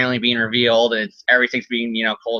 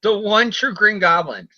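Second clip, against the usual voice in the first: slow, higher-pitched villain boast; lightly hammed-up villain announcement; mock grand proclamation; 7 semitones higher, slower than usual. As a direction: draw it out like a pompous title.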